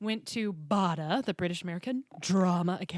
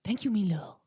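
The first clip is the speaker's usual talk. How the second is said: put-on Scottish child's voice; Fergus. Thanking a co-host for praise, in-character Scottish voice. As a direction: answer sweetly in a Scottish accent. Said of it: "your Fergus is so good".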